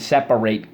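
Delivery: "separate" with a full -ate where the adjective is meant; wrong pronunciation. Shown as a demonstration. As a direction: say "separate" as SEP-a-rate. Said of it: "You're not going to say".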